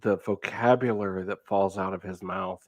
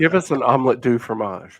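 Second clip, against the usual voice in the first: laughing mock French; 3 semitones higher, 6 dB louder than usual.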